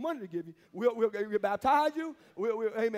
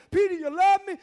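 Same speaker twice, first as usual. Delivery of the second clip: Jesus asking; 8 semitones higher, 11 dB louder than usual. Acted. Jesus voiced asking Peter.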